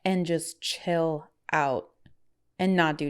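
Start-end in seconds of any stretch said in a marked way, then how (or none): 0.1-1.9 whisper. Real, not acted. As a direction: breathe it out slowly. Whispered, slowed.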